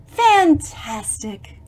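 drawn-out breathy "Fantastic!"; hushed praise; slow whispered cheer. Acted. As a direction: whisper it with delight. Reading book to children, cheering.

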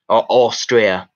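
slow, Australian-style "Austria" with the L dropped; Aussie pronunciation. Shown as a demonstration. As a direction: say "Austria" like "Os-stray-a", stretched out. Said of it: "I'm told they say Australia".

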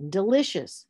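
DELICIOUS as de-LI-cious; stress on second syllable. Shown as a demonstration. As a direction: lean on LI in delicious. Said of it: "will be the stress".

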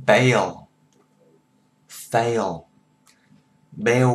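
"Bail" punched loud and "Fail" with a long glide; a loud "Bail", "Fail", "Bail" drill; model ail words. Shown as a demonstration. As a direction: clear ay-o endings. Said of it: "Cái tiếng này là A, O".

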